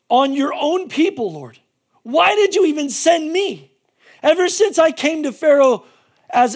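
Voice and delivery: loud, pleading frustration at the Lord; frustrated complaint. Retold or imitated. Moses complains to the Lord, frustrated and pleading. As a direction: demand an answer, exasperated. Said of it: "He's all frustrated".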